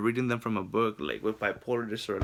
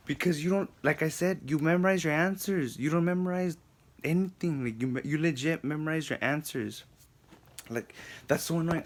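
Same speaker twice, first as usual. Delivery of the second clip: exasperated, higher-pitched insistence; worked up, annoyed; 4 semitones higher than usual. Real, not acted. Student venting about a teacher's methods, annoyed. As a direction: vent it in a raised pitch, really annoyed. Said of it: "I just get so mad".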